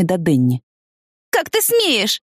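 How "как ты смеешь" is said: high, indignant attack on a friend; a girl's high outraged challenge; furious accusation. A narrator's reading. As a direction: lash out at him, voice pitched up. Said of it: "наехала она на него".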